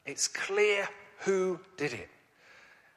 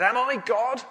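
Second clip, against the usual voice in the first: indignant king; 5 semitones higher, 4 dB louder than usual. Acted. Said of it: "he tore his robes and said".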